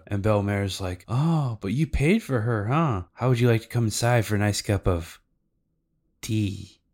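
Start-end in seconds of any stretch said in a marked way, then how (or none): 1.1-6.8 coy retold come-on with teasing pauses; playfully suggestive; mock seductive. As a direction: imitate a flirty invitation, lingering between phrases. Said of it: "Kinda, like, really seductive".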